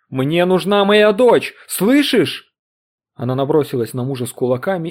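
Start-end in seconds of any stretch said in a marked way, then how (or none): 0.1-2.5 much higher, louder, slow plea; frantic cry. Acted. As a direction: scream for her lost daughter. Mother screams for daughter. (отчаянный крик)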